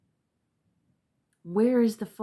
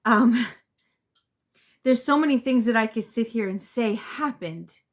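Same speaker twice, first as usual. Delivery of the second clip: laughing through tears, louder, slowing at the end; emotional laugh; 2 semitones higher, 5 dB louder than usual. Real, not acted. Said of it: "I don't know why I'm getting emotional".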